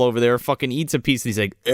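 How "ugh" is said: a retching "ugh"; put-on noise of disgust; mock disgusted grunt. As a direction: imitate gagging on a bad bite. Retold man spitting out food.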